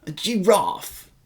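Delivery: GIRAFFE slow, stretched, British long A; British accent practice. Shown as a demonstration. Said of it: "practice my British accent".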